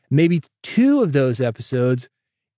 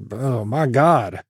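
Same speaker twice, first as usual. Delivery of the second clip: overwhelmed listener; slower than usual. Retold or imitated. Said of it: "You're like".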